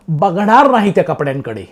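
emphatic mock refusal, falling end; imitated firm refusal. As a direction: refuse flatly as the quoted man. Quotes second man's firm refusal.

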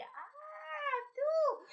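very high mocking "Ah, tú" from the giant; the giant laughs at David, high scornful "Ah, tú". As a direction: sneer down at the little boy. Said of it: "se ríe de él".

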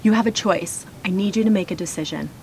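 even, steady "you have a choice"; calm offer. Acted. Parent giving the child a choice, calm and steady. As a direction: hand the choice back gently. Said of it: "contrasting statements".

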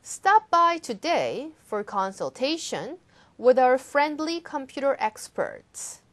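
slow, bright advertisement reading. Shown as a demonstration. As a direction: read it like a store ad. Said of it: "광고처럼 읽어주시면".

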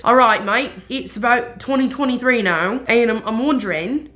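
chummy British "mate" greeting; British accent. Pretend. Speaking to the old spirit in a hammed-up British accent. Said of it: "Sorry for the accent".

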